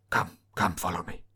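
low, hushed, urging whisper. Once the theatre lights go out and the clown vanishes, Bale whispering. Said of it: "Bale whispers".

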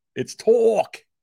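very high-pitched South Jersey accent. The speaker demonstrates how they say a word in their South Jersey accent. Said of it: "talk with my South Jersey accent".

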